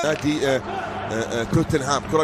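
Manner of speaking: excited shout. Real, not acted. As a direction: erupt as the goal goes in. Commentator erupts at goal.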